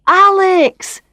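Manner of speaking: high, loud call across the room; Barry calling Alex from behind his flowers. Acted. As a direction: call her name the moment you spot her.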